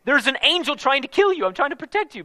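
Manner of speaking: mild put-on donkey voice begging its master; talking donkey. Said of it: "the donkey literally says".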